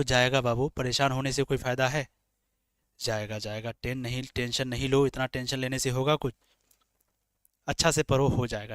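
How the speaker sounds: low, soft reassurance; calm a worried student, voice dropped low and soft; reassuring. Real, not acted. Reassures a student worried about tests.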